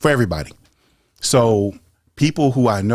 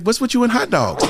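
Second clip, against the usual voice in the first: mock exasperation; 13 semitones higher than usual. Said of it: "It's like".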